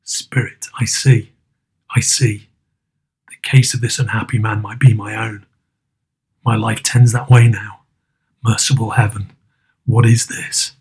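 put-on low, hushed voice of a horrified old man; low, appalled old Scrooge. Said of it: "listened to this dialogue in horror".

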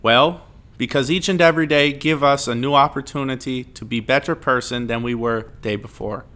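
bad Russian accent, reading aloud; amateur Russian-accented recital. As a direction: put on a shaky attempt at Russian. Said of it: "in a Russian accent".

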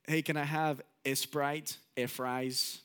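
put-on Mexican accent, adding an E before "Sprite" and "fries"; lightly imitated Mexican-accented English; grandpa's Mexican accent. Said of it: "he would add an E at the beginning of everything".

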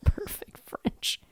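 whispered, drawn-out echo; mocking whisper. Real, not acted. Cohost echoing the host's claim of perfect French, mocking whisper. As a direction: whisper it slowly, doubting the boast. Cohost quietly echoes the boast.

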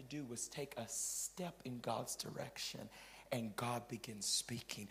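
soft, low whispered line; hushed aside. Acted. Preacher revealing a secret, soft whisper. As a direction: drop to a breath.

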